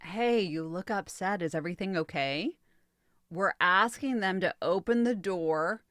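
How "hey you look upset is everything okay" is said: gentle check-in. Shown as a demonstration. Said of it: "A discovery question may sound like".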